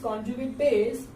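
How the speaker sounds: conjugate base of एच थ्री ओ प्लस, said slowly; teacher showing the correct phrasing; slow reading aloud. Shown as a demonstration. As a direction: model the sentence at half speed. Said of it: "ऐसे पढ़ा जाता है".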